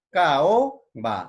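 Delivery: ca-o, pause, ba for "caoba"; vowels separated. Shown as a demonstration. Teacher showing a hiatus, "caoba" with separated vowels. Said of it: "se separa".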